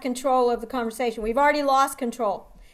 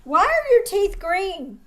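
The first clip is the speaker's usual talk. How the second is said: blunt confrontational question; 4 semitones higher, slower than usual. Retold or imitated. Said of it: "I had a doctor say".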